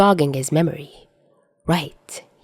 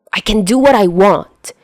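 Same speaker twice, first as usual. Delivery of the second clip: defiant; 3 semitones higher, 5 dB louder than usual. Acted. Defiant retort in quarrel.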